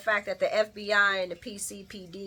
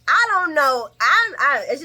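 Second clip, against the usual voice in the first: loud quote lost in laughter; giggling; laughing through it; 5 semitones higher, 10 dB louder, slower than usual. Real, not acted. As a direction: try to talk while cracking up. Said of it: "be like".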